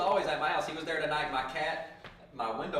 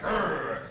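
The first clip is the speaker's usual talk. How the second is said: rolled growl, a bit louder; imitated cat growl; 3 dB louder than usual. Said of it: "he started growling like a dog".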